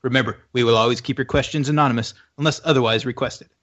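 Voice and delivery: fast, rattled-off ad-style read; segment intro read. Acted. Host reading the recurring ask segment intro to listeners, fast announcer read. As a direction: race through the stock segment blurb like an announcer.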